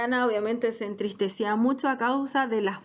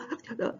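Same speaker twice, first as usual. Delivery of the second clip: breathless gasp; 8 dB quieter than usual. Shown as a demonstration. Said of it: "casi así como un murmullo".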